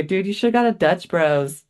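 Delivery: ordinary talk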